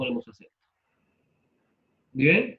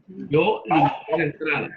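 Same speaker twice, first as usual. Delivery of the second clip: "limité" said li-mi-TÉ, stress on TÉ; stress on the last syllable. Shown as a demonstration. Teacher using the word in a sentence, "limité" stressed on TÉ. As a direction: punch the final syllable of "limité". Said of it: "Limité, lleva acento en la E".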